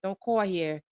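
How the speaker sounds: imitated Philadelphia accent, lightly done. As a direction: retell her line in a Philadelphia accent. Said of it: "so she had this strong accent".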